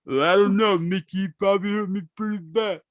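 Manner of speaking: Rocky Balboa voice. Retold or imitated. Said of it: "Rocky Balboa".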